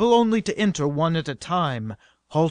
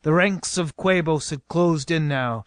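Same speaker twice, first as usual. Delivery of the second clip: ordinary delivery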